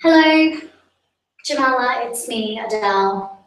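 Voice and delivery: lightly acted voice reading a friend's text; a singer. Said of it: "the singer's just texted me".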